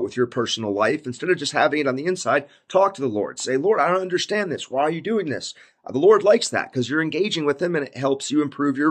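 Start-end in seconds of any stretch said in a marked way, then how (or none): 3.6-5.5 higher-pitched, lightly pleading question; acted plea. Believer asking the Lord why, lightly acted plea. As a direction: put a mild, puzzled plea to God.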